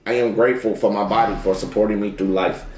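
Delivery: calm affirmation, echoed low; affirmation repeat. Shown as a demonstration. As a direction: repeat it back like a mantra. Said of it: "I just wanna get a little one today".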